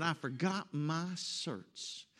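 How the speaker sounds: slow imitated North Carolina drawl; North Carolina accent. Husband confessing to his wife, imitated North Carolina accent. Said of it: "North Carolina accent".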